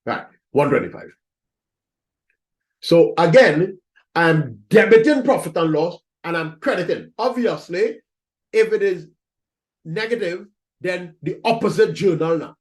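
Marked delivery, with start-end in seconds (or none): 2.8-7.1 louder, stressing debiting; teacher restating the rule loudly; emphatic louder recap. Shown as a demonstration. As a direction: punch the recap of the entry. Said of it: "So again, as I said".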